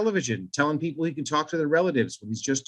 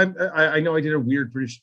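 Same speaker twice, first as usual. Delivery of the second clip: normal talking voice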